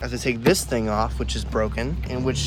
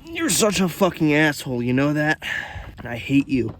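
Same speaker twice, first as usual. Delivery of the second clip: angry at the car; 2 semitones higher, 5 dB louder than usual. Real, not acted. Cursing at the stubborn car part.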